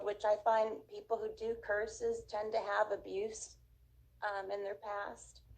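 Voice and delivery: losing voice, words dropping away. Real, not acted. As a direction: voice fading and giving out. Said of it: "I'm losing my voice".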